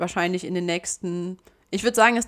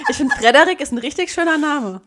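laughing; 7 semitones higher, 5 dB louder than usual. Real, not acted. Laughing pitch for a name.

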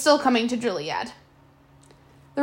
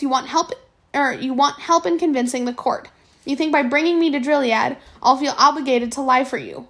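sounding angry; 2 semitones higher than usual. Acted. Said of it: "that's how it sounded when I spoke".

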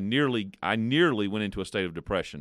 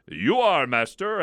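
shaking with fear; 8 semitones higher, 5 dB louder, slower than usual. Acted. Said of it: "shaking with fear".

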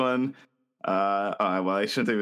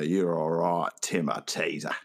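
put-on Australian accent; 5 semitones lower than usual. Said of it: "I'm working on my accent".

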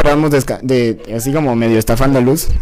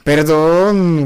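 tag; 4 dB louder than usual. Real, not acted. Drawn-out apology to chat.

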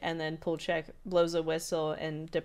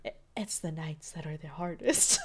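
hammed-up forlorn little voice through laughter; mock-pitiful confession, holding back a laugh; pool jail kid. Pool jail kid speaking from a vent, mock forlorn. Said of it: "calls him pool jail kid".

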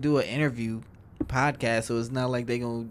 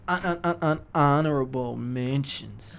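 whispering; slower than usual. Acted.

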